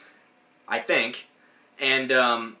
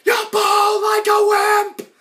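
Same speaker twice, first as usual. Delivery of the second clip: much higher, louder, slowed cartoon yell; angry yell; 8 dB louder, much slower than usual. Ed berating Virginia for her weak bowl, furious higher yell. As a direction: scold her like a furious coach. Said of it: "and he's like".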